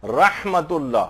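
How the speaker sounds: रहमतुल्लाह drawn out slowly, each sound clear; slow demo. Shown as a demonstration. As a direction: slowly spell out रहमतुल्लाह in speech. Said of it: "हा की आवाज जो एक मोटी सी एक आवाज".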